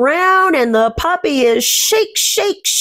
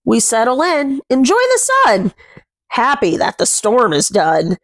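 gentle rhyming picture-book read, words savoured; reading to children. A narrator's reading. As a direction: read the rhyme aloud to little ones. Reads rhyming picture book aloud.

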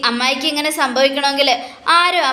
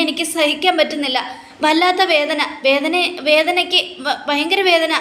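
higher, pained crying plea; 4 semitones higher than usual. Acted. Mother crying out in pain to her son, higher pained wail. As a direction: cry out through the pain, voice pitched up. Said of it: "എന്നൊക്കെ പറഞ്ഞുകൊണ്ട് കരയുക".

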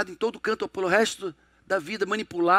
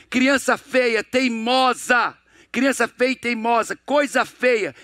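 put-on higher, sharper scolding of a stubborn child; critical scolding parent; 4 semitones higher than usual. Parent berating a stubborn child at the table, pitched-up scolding.

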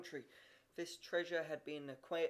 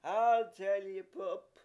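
loud, slow, grand threat; the threat repeated even louder; virtuous grandeur; 3 semitones higher, 10 dB louder, slower than usual. A narrator's reading. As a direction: boom it out righteously. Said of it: "cried Peter in virtuous grandeur".

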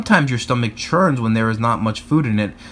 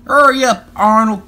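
loud, higher call across the park; 7 semitones higher, 6 dB louder than usual. A narrator's reading. Teacher calling a daydreaming pupil, loud call. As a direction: call the straggler to hurry. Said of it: "called Miss Frizzle".

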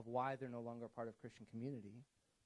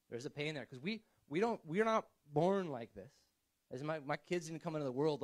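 much louder, urgent and pressing; passionate preaching; 2 semitones higher, 10 dB louder than usual. Real, not acted. Preacher pressing the church on their pain, much louder. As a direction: lean in and drive the point home.

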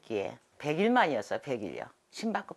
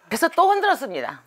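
laughing; 11 semitones higher, 9 dB louder than usual. Retold or imitated. Laughing at her own frantic shaking.

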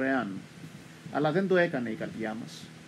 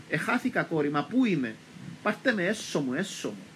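lost grandmother begging her daughter, frantic; frantic pleading; 2 semitones higher than usual. Retold or imitated. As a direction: plead desperately to be taken home. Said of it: "άρχισε να φωνάζει σε έξαλλη κατάσταση".

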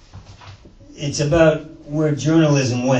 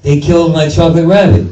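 mock Godfather grief; 4 semitones higher, 5 dB louder than usual. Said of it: "like from The Godfather".

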